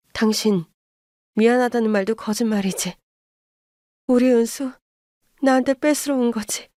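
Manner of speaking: exploding in anger. Acted. Mother lashing out at the grandmother, furious. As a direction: let the held-back rage burst out at her. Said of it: "엄마의 화를 폭발시키고 말았습니다".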